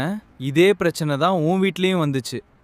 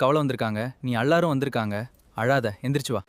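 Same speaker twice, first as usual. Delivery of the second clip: reassuring; 5 semitones lower than usual. Acted. Husband comforts crying wife.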